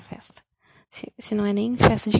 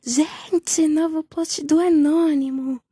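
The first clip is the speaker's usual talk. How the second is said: higher, louder call to the crowd, drawn out; retold shout; 6 semitones higher, 3 dB louder, much slower than usual. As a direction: call out the news to everyone. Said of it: "a Manu grita assim". (anunciando alto para a festa)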